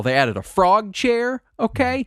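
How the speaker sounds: eager, gushing list of new features; excited fan, dwelling on each item. Real, not acted. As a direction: reel off each addition with delight. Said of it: "I'm so excited".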